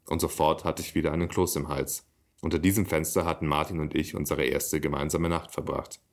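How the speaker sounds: even-paced reading with livelier dialogue; measured literary read-aloud; story narration. A narrator's reading. Reads own story aloud.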